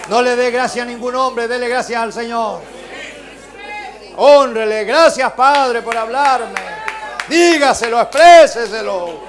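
loud, commanding exhortation; fervent preacher's call; preaching at full force. Real, not acted. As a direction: urge them to give thanks. Exhorting the congregation.

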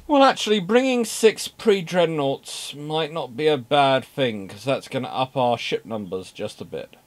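lightly hammed-up planner voice; voicing German admirals. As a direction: muse aloud as the German Navy. German Navy voiced thinking aloud.

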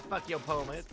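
put-on unconvincing Nebraska accent. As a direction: repeat it in a silly homemade Nebraska accent. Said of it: "No, that's my accent".

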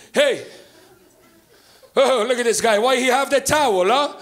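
lightly voiced accented dad; curious, teasing dad over the phone; dad impression. Comic dad looks at the man in the towel on the phone, puzzled. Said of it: "this is as close of an impression as I can do".

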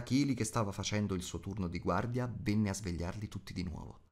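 plain reading voice

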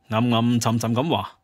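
ordinary delivery

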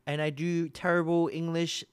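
hammed-up slow put-on streamer voice; mock Mu Melodies. Streamer teasing a friend by pretending to be her, slow mock voice. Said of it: "I can pretend that I'm Mu Melodies".

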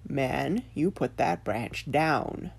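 slow, solemn tree; slow warning from a tree; talking tree. Acted. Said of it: "Then the tree said".

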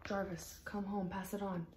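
soft message. Acted. Message passed along, first voice.

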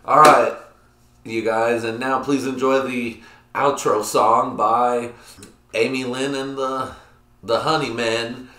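slow, loud show host announcing the outro song; announcer voice. Retold or imitated. A vlogger to his viewers, slow, loud hammed-up announcer voice. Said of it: "I said".

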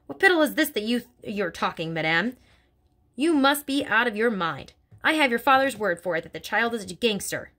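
lightly voiced stern headmistress; a hint of a bullying headmistress, scornful; Trunchbull voice. Headmistress sneering about little girls to Miss Honey, scornful.

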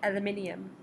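British "Aluminium", five syllables; imitated English accent, extra syllable. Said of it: "is how he would say it".

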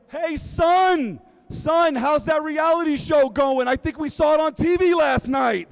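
loud, high teasing call from across the room; a father shouting a jab down the hall; dad calling out. Retold or imitated. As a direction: holler at your son across the office, needling him.

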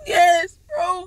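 a teary, choked "yes"; hammed-up crying boyfriend; mock crying. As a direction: fake a sob through it. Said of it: "Why are you crying like this?".

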